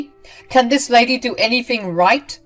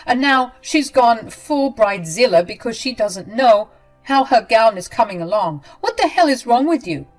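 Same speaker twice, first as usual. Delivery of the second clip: furious yelling; 6 semitones higher, 8 dB louder than usual. Acted. Ramona yelling at narrator.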